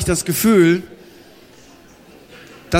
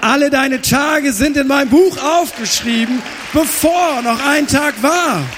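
higher and louder, proclaiming with rising force; preaching at full force; 4 semitones higher, 4 dB louder than usual. Acted. Preacher proclaims God's book to the congregation, full force. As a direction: thunder it out to the congregation.

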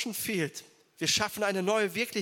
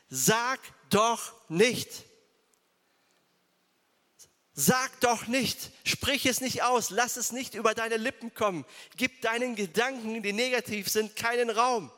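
God's firm command; 4 semitones higher, 3 dB louder than usual. Acted. Preacher voicing God rebuking Jeremiah, loud and firm. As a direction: command him to stop making excuses. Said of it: "antwortete der Herr".

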